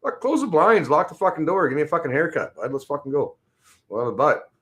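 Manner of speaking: retelling own reply. Retold or imitated.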